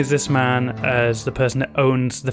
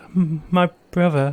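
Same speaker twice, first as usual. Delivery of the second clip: put-on little old lady character voice; 4 semitones higher than usual. The game narrator voices a woman talking to a player: little old lady voice. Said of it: "little old lady".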